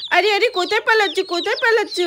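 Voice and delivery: high, fast cry after runaway chicks; boy chasing chicks, calling after them, high and fast; excited chasing call. Acted. Child chasing fleeing chicks.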